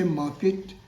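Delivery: 'market' as mah-ket, with an e vowel; wrong pronunciation. Shown as a demonstration. Teacher asks learners, mistaken ket ending. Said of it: "it is wrong".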